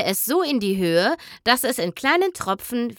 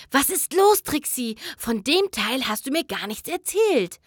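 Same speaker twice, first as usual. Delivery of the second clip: panicked whisper; 3 semitones higher than usual. Acted. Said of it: "flüsterte sie panisch".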